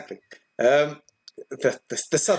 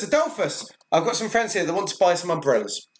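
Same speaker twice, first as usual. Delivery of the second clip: in-character announcement; 4 semitones higher than usual. Acted. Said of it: "she sort of backs away. Says".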